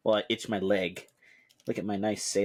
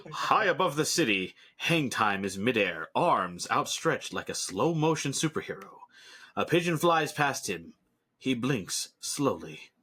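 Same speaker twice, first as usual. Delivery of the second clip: narrator voice. Acted. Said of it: "I like using my narrator voice".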